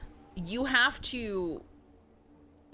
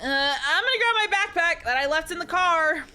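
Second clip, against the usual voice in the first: put-on higher, louder cute girl voice; high cute anime girl; 7 semitones higher, 5 dB louder than usual. Fake girly voice in game.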